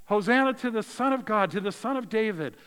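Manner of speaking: loud, high joyful cry of Hosanna; crowd acclaim. Acted. Preacher voicing the crowd hailing Jesus, loud acclaim. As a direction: call it out like the cheering crowd.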